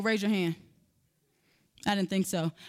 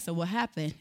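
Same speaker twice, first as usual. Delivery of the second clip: calm mom; 8 semitones lower, 6 dB quieter than usual. Retold or imitated. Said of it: "she's chill".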